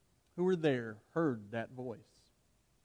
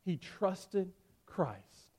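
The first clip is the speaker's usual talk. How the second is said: hushed close; 4 semitones higher, 3 dB quieter, much slower than usual. Real, not acted. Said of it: "closing line dropped low".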